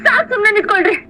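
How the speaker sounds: indignant questions with swinging pitch; exasperated, emphatic comeback; angry retort. Acted. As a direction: hit back at an accusing husband. Wife hits back in quarrel.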